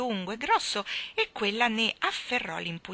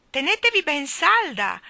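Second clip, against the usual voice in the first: high, loud warning cry; anxious shout; 8 semitones higher, 8 dB louder than usual. Acted. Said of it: "gridò Michael con ansia".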